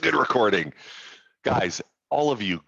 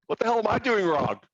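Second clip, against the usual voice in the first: frustrated agent; 10 semitones higher than usual. Pretend.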